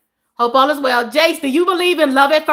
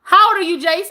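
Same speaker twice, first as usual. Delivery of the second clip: shocked questioning; 4 semitones higher than usual. Real, not acted. Repeats shocked question to viewer.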